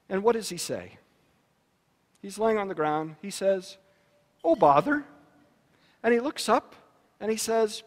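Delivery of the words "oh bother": a hint of Winnie the Pooh, mildly fed up; lightly voiced Pooh, a touch bothered; mild Pooh frustration. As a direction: sigh it out like a bear who fell over. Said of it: "Winnie the Pooh has a little frustration".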